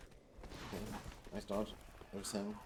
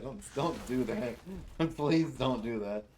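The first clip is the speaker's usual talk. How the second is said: laughing plea; 3 semitones higher, 5 dB louder, much slower than usual. Real, not acted.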